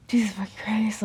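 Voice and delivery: breathy whispered curse; exasperated whisper. Real, not acted. Venting to viewers, whispered exasperated curse. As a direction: curse under your breath.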